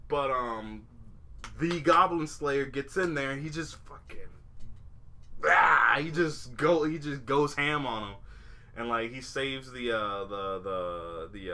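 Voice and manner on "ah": battle cry. Retold or imitated. Goblin Slayer attacks.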